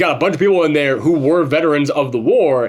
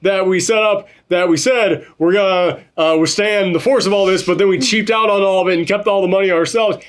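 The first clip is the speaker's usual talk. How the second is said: higher and rushed, a guilty scramble; mock panicked government; 6 semitones higher than usual. Host mocking the government's excuses, high and hurried. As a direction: blurt it fast like officials caught out. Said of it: "the government was like".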